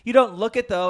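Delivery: imitating a girl at a band's concert asking why he isn't having fun; pushy girl at the concert. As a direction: play a nosy girl needling a friend. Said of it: "she's like".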